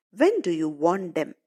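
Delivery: put-on light foreign accent, "want them" run together as "wond em"; accented English. Teacher imitating the shoemaker's accented question. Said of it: "his particular accent".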